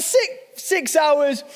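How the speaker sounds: slow, incredulous echo; mock disbelief. Honeymooner hears how long the presentation lasts, acted disbelief. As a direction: repeat it as if you can't believe it. Acting out his disbelief at six hours.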